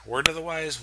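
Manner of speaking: "Word of the wise?" asked back softly, puzzled; quizzical self-check. Real, not acted. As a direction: question your own odd phrase.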